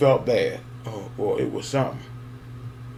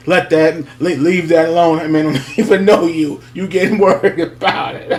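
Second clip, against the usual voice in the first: scolding relatives; 4 semitones higher, 5 dB louder than usual. Retold or imitated. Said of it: "my people saying".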